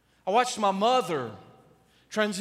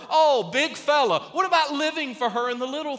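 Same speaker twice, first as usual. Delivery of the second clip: mocking big fella; 8 semitones higher, 6 dB louder than usual. Real, not acted. Mocking tough guy.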